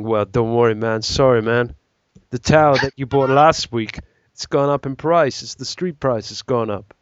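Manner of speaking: loosely put-on street-dealer accent; lightly hammed-up dealer patter in a vague accent; half-formed accent of an apologetic drug pusher; semi accent dealer. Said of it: "what accent is this?".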